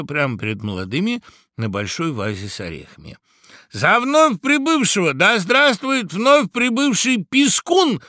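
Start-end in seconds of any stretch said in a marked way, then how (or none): 3.7-8.0 slow, high shouted toast; drawn-out, loud festive cheer; chorus of greeting. A narrator's reading. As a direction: hail the newcomer at full voice. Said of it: "приветствовал его птичий хор".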